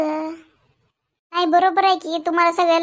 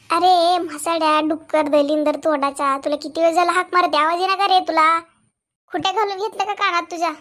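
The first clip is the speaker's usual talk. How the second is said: angry scolding. Acted. Mother scolds son ignoring her.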